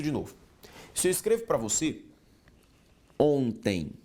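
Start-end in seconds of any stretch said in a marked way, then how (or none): 3.2-3.9 "ontem" said slowly, its nasal vowels isolated; careful pronunciation. Shown as a demonstration. Teacher modelling "ontem" for students, drawn out. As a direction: sound out "ontem" clearly for the class. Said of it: "quando eu escrevo ontem".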